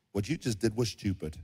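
low, hushed aside; mock whisper. God slipping a word into Pharaoh's ear, hushed. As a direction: murmur it softly into an ear. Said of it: "he whispers in Pharaoh's ear".

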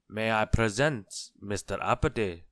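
loud formal introduction; projected courtly goblin announcement; announcing. A narrator's reading. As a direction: present a visitor to the throne. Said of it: "announced the goblin".

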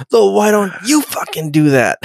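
playfully yelling at him why he doesn't do it himself; mock yell. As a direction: fire it back at him through a laugh. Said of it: "she basically yells".

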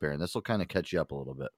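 ordinary delivery

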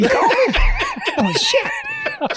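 high-pitched laughing through it; can't stop laughing at the shock; laughing disbelief. Real, not acted. To the guests, reliving the prank call turning out real, laughing hard.

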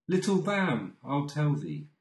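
little lamb lifted high, then falling; high eager call. Acted. Reader calls to the lamb, high and eager. Poem refrain, first of two takes.

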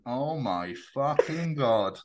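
drawn-out, slow mock horror; imitating a shocked presenter under his breath; slow mock dismay. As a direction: let the horror sink in slowly. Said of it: "there going".

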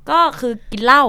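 deadpan reveal pushed up loud; punchline. Real, not acted. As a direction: land กินเหล้า as the joke. Punchline of the story.

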